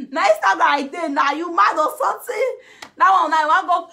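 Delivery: loud, high words through laughter; laughing shout; laughing while talking. Real, not acted. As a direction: talk while cracking up. Laughing through repeated quote.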